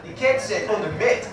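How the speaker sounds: "the ket set on the met", the A turned to E; South African vowels; South African accent again. Shown as a demonstration. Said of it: "replace the A with an E".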